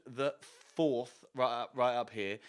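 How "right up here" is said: plain reading voice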